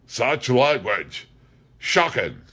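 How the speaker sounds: mock shocked. A narrator's reading. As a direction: savour the fake scandal. Cockney mocks Leach smugly.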